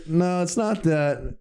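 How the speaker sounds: lifted, stretched-out mimicry of a correction; drawn-out mock correction. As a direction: correct them slowly, in imitation.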